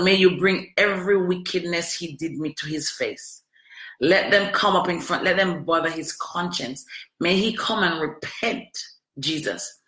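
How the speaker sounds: earnest spoken prayer to God; praying for justice on her ex. Real, not acted. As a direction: call on God against him. Prays against ex.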